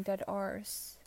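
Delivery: "dead R's" with a British-style ar vowel; mimicked British "dead R's" for "deadass"; mispronounced slang. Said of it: "not even saying it correctly".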